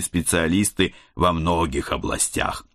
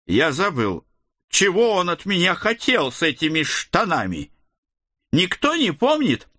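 high, fussy odd uncle; eccentric uncle voice; 12 semitones higher than usual. A narrator's reading. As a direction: play him as a rambling quirky god. Ed forgets, asks others.

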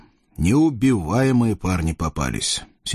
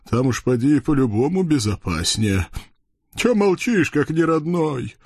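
чёрт Хряк; 4 semitones higher than usual. Acted. Толстый чёрт Хряк говорит.

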